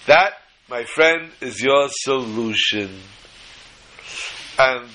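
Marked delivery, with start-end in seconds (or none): 0.1-3.0 dramatic reveal. Retold or imitated. Kid's dramatic punchline.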